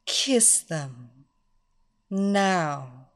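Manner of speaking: slow, commanding, teasing mistress voice; seductive dominatrix. Acted. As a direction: purr the commands slowly. Mistress seducing her slave.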